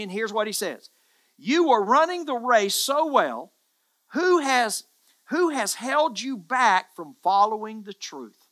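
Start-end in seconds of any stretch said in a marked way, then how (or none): 1.4-8.4 loud proclaiming. Acted. Preacher proclaims Paul's words.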